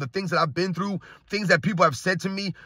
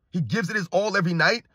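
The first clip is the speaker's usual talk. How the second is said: incredulous echo. Retold or imitated. Host doubting a fan's claim about LeBron, incredulous echo. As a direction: echo the claim with a rising end.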